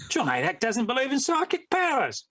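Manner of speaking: sling it like a broad Aussie; Australian accent. Retold or imitated. Guest jokingly quotes a critic in an Australian accent. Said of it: "I'm doing the Australian accent".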